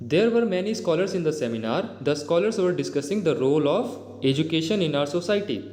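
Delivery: slow, deliberate reading of an English example; slow dictation-style reading. Shown as a demonstration. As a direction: read each word out clearly for the class. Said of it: "teacher reads example sentences slowly".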